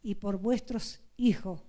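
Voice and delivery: earnest sermon voice, calling to weep; preaching. Acted. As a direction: plead with the congregation to weep. Woman preaching to brethren. (predicación fervorosa)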